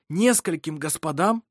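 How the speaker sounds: «Нескольким господам?» asked back with a rising end; puzzled echo question. A narrator's reading. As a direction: repeat «Нескольким господам?» as a question, lifting the last word. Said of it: "переспросил Ировар". («Нескольким господам?» — переспрос с подъёмом в конце)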